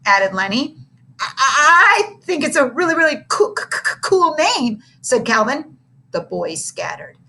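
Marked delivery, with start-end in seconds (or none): 1.2-4.8 high, stammering nervously; a high frightened stammer. A narrator's reading. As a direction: stumble over the words in fear. Scared kid stuttering praise.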